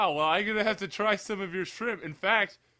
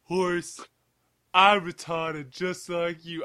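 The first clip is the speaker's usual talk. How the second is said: slow mock Southern drawl; black southern voice; much slower than usual. Man greeting a horse as kin, slow Southern voice. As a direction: lightly put on a Black Southern accent. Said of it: "I don't know why he's black and southern".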